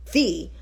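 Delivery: "the" said as THEE, with a long ee. Shown as a demonstration. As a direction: stretch the vowel of "the" into "thee". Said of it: "her words using".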